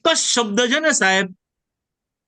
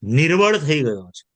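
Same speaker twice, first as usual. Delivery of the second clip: weary David. Retold or imitated. Preacher voices David crying out until exhausted. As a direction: let the strength drain out line by line. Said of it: "દાઉદ કે".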